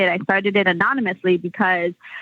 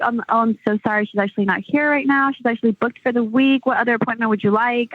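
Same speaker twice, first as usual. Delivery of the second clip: lightly voiced apologetic phone receptionist, pitched higher; hint of a polite booking assistant, quicker apology at first; put-on receptionist; 3 semitones higher than usual. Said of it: "I would pretend to be different people".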